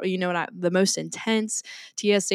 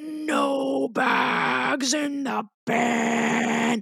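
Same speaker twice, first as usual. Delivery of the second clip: creaky, pitched-up, aggressive rasp with stretched no; 6 semitones higher than usual. Retelling how a person turned around and scolded them at the bin, imitating an aggressive person. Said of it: "That voice sounded like the person that worked at the Haunted Mansion ride".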